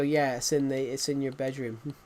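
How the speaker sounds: lightly imitated American parent; mock American accent. American person answering about the bedroom, mock American accent. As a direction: toss it off in a mild American accent. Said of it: "an American person will go".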